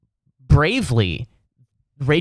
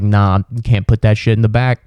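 dismissive driver; 5 dB louder than usual. Retold or imitated. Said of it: "And he's just like".

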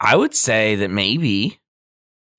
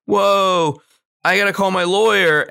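panicked Bateman; 11 semitones higher, 5 dB louder than usual. Retold or imitated. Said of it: "he's like".

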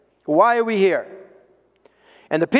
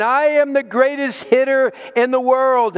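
higher-pitched proud proclamation; mock announcement; 6 semitones higher than usual. A narrator's reading. Preacher voices undaunted boy trying again, mock announcement. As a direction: announce it like a boy's boast, without real shouting. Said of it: "he announced again".

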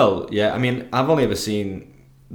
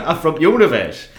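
laughing; 5 semitones higher, 5 dB louder than usual. Retold or imitated. Laughing mock Yorkshire imitation.

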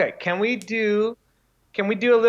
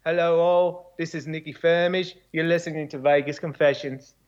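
put-on a light Australian accent doing a podcast intro; an easygoing Australian radio intro voice; 3 semitones lower than usual. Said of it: "say a phrase in his accent".

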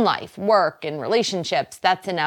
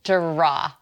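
Boston accent. Shown as a demonstration. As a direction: draw with a Boston vowel. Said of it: "can you hear my accent when I say that".

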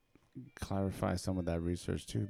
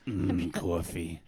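diner waitress; 3 semitones lower, slower than usual. Acted. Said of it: "I sound like a truck stop waitress".

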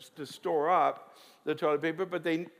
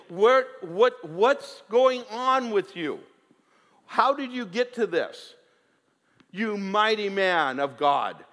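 louder, slow, pleading questions from God; pressing questions; 3 semitones higher, 4 dB louder, slower than usual. Acted. Preacher voicing God asking the prophet, slow and loud.

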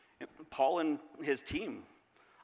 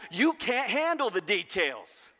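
louder, slow booming pronouncement; demonstrative God voice; 4 semitones higher, 5 dB louder, slower than usual. Pretend. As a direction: declare it like God from above. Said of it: "God in the demonstrative voice".

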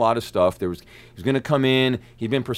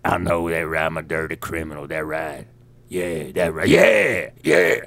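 mock Southern accent; 7 semitones lower than usual. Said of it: "at first I thought he's joking".

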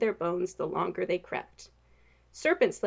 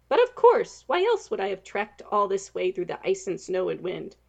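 scoffing; 4 dB louder than usual. Acted. Knight scoffing at the princess. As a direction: scoff at such a silly question. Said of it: "Serpent Slayer scoffed".

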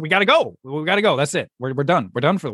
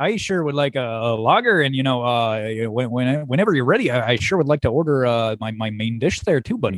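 folksy customer voice; 3 semitones lower than usual. Acted. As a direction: play an easygoing rube ordering food. Character customer ordering in improv skit.

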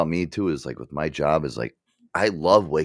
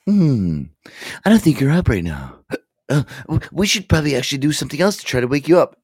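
high, louder prim device voice; voice assistant imitation; 9 semitones higher, 4 dB louder than usual. Assistant trying to wake a sleeper, high imitated voice. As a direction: play the assistant pondering out loud. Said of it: "this thing's like".

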